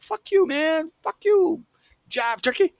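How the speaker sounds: high-pitched sitcom jive comeback; J J Walker. Retold or imitated. Boy answering the kids who make fun of him, high mock comeback. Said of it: "imitating J J, you know, Jimmy".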